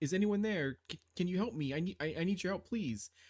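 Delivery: put-on small, frail, fragile, vulnerable young woman's voice. Narrating a role-playing game, voicing an unseen figure, in a young, fragile woman's voice. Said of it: "voice sort of appears, that seems very young, very fragile, vulnerable".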